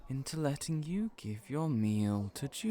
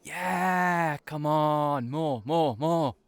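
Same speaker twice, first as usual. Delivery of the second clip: loud, excited push for more; eager urging; 2 semitones higher, 6 dB louder, slower than usual. Real, not acted. Friend demanding more about the admirer, loud eager urging. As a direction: egg him on, hungry for details.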